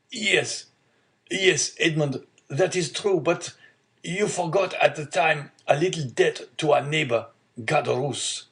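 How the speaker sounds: a hint of an old man explaining himself, pitch lifted; apologetic old father. Old father admitting a debt to son, mildly apologetic.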